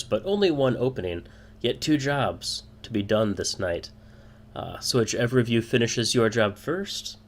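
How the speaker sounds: mildly pleased host, pitch a little up; lightly voiced delight at announcing a race; a touch of showman's relish; joyous guild man. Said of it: "clearly very joyous at this".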